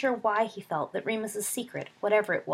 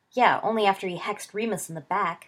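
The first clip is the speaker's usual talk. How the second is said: louder, heated retort; shouting; 6 dB louder than usual. Acted. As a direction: shout it back at him. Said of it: "Sirius shouted".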